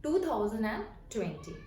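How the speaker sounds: very slow, June lifted; American date modelled slowly. Shown as a demonstration. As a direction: read each part slowly for learners. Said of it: "तब आप बोलेंगे".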